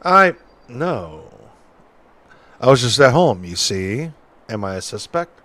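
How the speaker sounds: lightly voiced folksy witness; a hint of an old-timer telling his story; old-timey witness.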